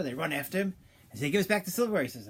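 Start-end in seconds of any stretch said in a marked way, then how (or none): 1.3-2.0 angry demand. Retold or imitated. Innkeepers chase accused thief.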